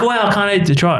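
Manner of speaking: put-on high, delighted kid voice; imitated excited child. Bella looking forward to frozen burgers, imitated childlike delight.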